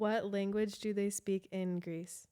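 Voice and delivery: slow, spaced-out question; reading out a search. Real, not acted. Friend looks up Greece's language, slowly reading out the query. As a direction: say it slowly while typing it in.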